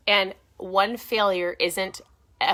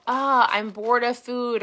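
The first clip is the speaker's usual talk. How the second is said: imitating bored complainers, higher and drawn out; slow, mildly exaggerated moan of boredom; mock complaint; 4 semitones higher, 4 dB louder, slower than usual. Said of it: "sometimes people go".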